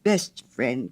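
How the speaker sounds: slow, earnest plea to a friend; heartfelt cry. Acted. Hans assuring the miller he can have every flower, slow heartfelt cry. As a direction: draw out each word, meaning it. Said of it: "cried little Hans".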